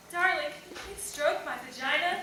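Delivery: mock-polite bedroom request; politically correct lover. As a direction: ask a partner very correctly, lifting at the end. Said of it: "trying to be politically correct".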